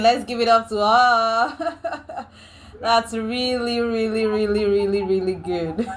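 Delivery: delighted, high praise through laughter; laughing praise. Real, not acted. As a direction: applaud the teacher while laughing. Observer praises the demo, laughing.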